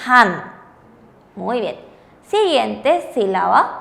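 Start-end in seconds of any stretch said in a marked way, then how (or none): 0.1-0.5 "han" slowly, as one syllable; reading demo. Shown as a demonstration. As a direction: model "han" with a final N. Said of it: "se lee como". ("han" lento, en una sola sílaba)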